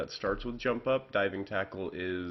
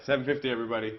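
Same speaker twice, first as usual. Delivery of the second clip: louder, proud declaration to everyone; triumphant announcement; 3 semitones higher, 5 dB louder, much faster than usual. Real, not acted. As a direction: announce it like you solved it. Proudly announcing the worked-out sum.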